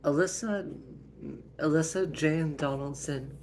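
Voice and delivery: mildly yelled parental warning; scolding mother. Acted. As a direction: lay down the law to the kids. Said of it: "they were getting yelled at".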